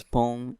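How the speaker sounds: "poem" said as pome, rhyming with home; "poem" as pome, with one vowel; one-syllable poem. Shown as a demonstration. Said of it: "it would be P O M E".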